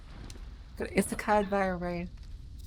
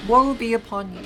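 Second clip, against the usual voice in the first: loud, theatrical doom proclamation; dramatic curse; 2 semitones higher, 9 dB louder than usual. Acted. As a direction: proclaim it like a dark prophet.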